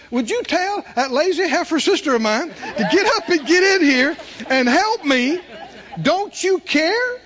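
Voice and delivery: mildly high, indignant complaint; a touch of a fed-up sister nagging; annoyed Martha. Retold or imitated. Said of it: "interrupts him and says".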